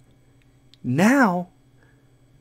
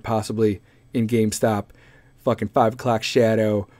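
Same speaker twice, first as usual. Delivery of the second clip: ordinary talk, nothing marked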